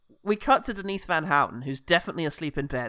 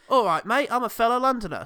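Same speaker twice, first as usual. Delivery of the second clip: higher, louder cheery mock greeting; mock friendly Londoner; 6 semitones higher, 4 dB louder than usual. Parodying a Londoner greeting a stranger, mock-chummy. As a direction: hail a mate as a caricature Londoner. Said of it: "said no one ever".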